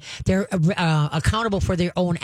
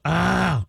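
mock mother dog growl. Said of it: "she'll give a deep growl".

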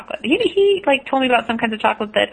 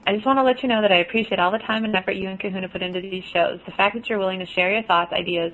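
letter read aloud; 5 dB quieter than usual. Shown as a demonstration. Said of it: "she says".

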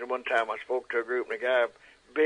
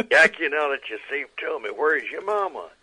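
louder, slightly raised cartoon bulldog voice; Chopper; 3 semitones higher, 7 dB louder than usual. Shown as a demonstration. Bulldog asking the rescued duck about his mama, cartoon voice. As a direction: play the protective cartoon friend, projecting. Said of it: "Chopper says".

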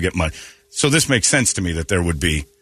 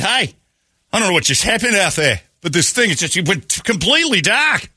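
German tourist; 9 semitones higher than usual. Retold or imitated. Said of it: "a German guy".

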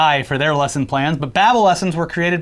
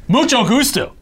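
Spanish phrase; 6 semitones higher than usual. Shown as a demonstration. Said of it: "Babbel, language for life".

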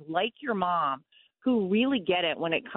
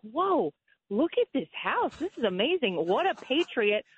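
higher-pitched admiring gush; retold amazement; 4 semitones higher than usual. Guest recalls spotting the house photo while scrolling, retold amazement. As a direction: act out being wowed by a find. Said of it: "and I was like".

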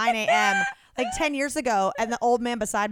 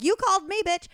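retold snap; 9 semitones higher, 3 dB louder than usual. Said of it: "And you're like".

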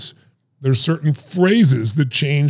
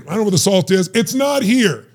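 higher mock yell of a frustrated kid; 5 semitones higher than usual. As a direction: complain the salt is missing. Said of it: "kid searching, frustrated".

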